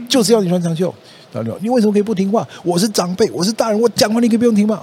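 high, fast, heated scolding; mock angry parent. Parent yelling at child over sleeves, hammed-up heated scolding.

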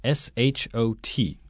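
letter by letter, slowly; spelling it out. Shown as a demonstration. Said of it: "Duncan帮我们拼一下".

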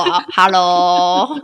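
slow stretched Hello with rising end; drawn-out hello. Shown as a demonstration. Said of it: "calling hello twice".

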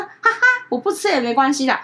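high awkward little laugh then shy reply; awkward turtle. Retold or imitated. Imitating the turtle, awkwardly laughing it off. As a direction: play the embarrassed pet brushing it off. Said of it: "就是那种自己觉得尴尬了".

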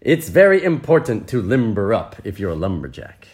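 animated, lilting storybook reading; story narration. A narrator's reading. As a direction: read it brightly to the listeners. Reads the story aloud.

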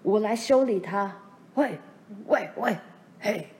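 loud fighting whoop; loud whooping yell. A narrator's reading. Edwards whoops loudly as he jumps into the fight. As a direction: holler like a wildcat. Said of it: "爸这又长又尖的叫声".

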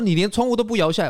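put-on shrill-pitched old auntie complaining about the window; mimicking the auntie. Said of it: "他说". (高声模仿阿姨抱怨)

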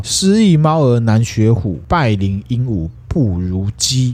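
slow, drawn-out recited sigh; acted lament. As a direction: lament in slow classical verse, falling off. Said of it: "叹息说". (缓慢吟诵，作叹息状)

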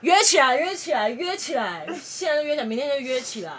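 loud, high chant that fades as it repeats; hyped cheering. Retold or imitated. Drunk narrator urging friend to date the guy, excited chant fading. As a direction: egg her on, then wind down.

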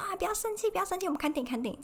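high coaxing mom voice; very high, wheedling please-don't-be-mad. Retold or imitated. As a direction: imitate mom soothing her annoyed child. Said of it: "他说".

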